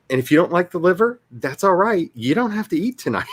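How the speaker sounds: mock stern parent. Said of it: "my parents weren't nice about any of that".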